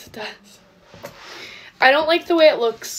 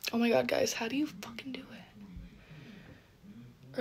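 whispering; 15 dB quieter than usual. Real, not acted. Frustrated aside to viewers.

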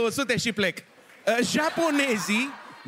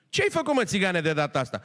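scolding priest; 2 semitones lower than usual. Acted.

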